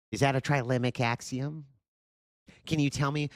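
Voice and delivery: shrill mocking teacher questioning; mock quiz-master. Streamer mocking the opponent's pop quiz questions, high.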